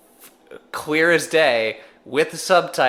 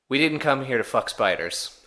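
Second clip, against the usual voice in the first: lightly put-on Australian accent; a mild stab at an Australian accent, Australian; a hint of an Australian twang, Australian. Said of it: "great accent, Steven".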